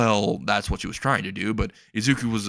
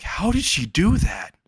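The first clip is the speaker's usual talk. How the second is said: high, slow-stretched disbelief; astonished; 8 semitones higher, slower than usual. Acted. Captive finding the closet empty, astonished. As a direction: marvel in a high mock-amazed voice.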